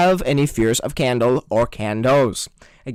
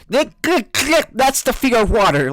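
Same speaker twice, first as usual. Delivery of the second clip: mock typing expert; 5 semitones higher than usual. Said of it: "Just like".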